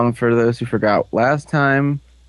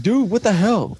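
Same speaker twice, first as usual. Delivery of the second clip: mock outrage; 8 semitones higher than usual. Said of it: "and he's like".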